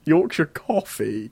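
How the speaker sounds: incredulous. Real, not acted. Incredulous echo.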